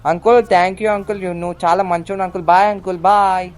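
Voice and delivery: loud, high mock-sweet farewell; cheeky thanks. Driver cheekily thanking the uncle he hit, loud and high. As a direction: wave him off cheekily.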